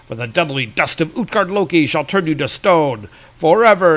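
theatrical comic-book villain pronouncing doom; lightly voiced grandiose villain, savoring the threat; gloating villain. Villain's speech in retold comic.

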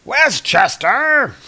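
high, loud, slow disbelief; incredulous. Real, not acted. Host mocks a comic line, slow and disbelieving. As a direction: drag it out in disbelief. Incredulous at area code question.

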